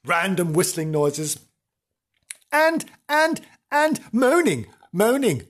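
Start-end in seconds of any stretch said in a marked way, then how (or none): 2.5-5.4 ghostly moaning. Pretend.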